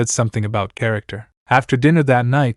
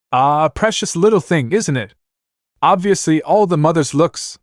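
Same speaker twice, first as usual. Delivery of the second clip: lightly voiced mocking old lord; a hint of a teasing nobleman, higher; laughing lord voice; 5 semitones higher than usual. Narrator voices Lord Karstark.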